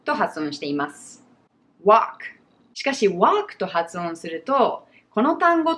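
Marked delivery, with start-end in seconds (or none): 1.8-2.0 walk as wahk with silent L; simple American walk. Shown as a demonstration. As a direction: open ah in walk, then k. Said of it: "簡単にwalkと発音しています".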